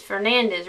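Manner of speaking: Fernandez as "fer-NAN-dez", z ending; anglicized. Shown as a demonstration. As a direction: say Fernandez the English way. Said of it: "anglicized them".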